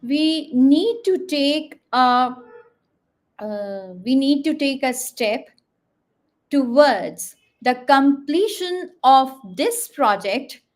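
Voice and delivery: slow, deliberate, key words leaned on; emphasis on key words. Shown as a demonstration. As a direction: stress the content words as you say it. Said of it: "For example, if I talk about a sentence".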